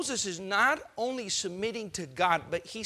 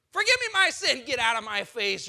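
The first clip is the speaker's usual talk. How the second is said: louder, higher plea turning to a snap; mock hypocrite; 3 semitones higher, 5 dB louder than usual. Preacher mocking Pharaoh's two-faced plea. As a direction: beg then snap.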